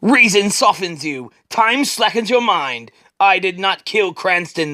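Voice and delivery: slow Shadow voice. Acted. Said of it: "the Shadow says".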